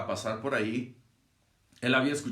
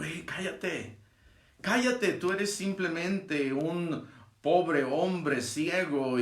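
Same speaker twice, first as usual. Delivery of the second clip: high-pitched retold scolding; reprensión imitada; 5 semitones higher, slower than usual. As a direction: act out a crowd hushing a beggar. Crowd silencing the blind man. (reprensión imitada en tono agudo)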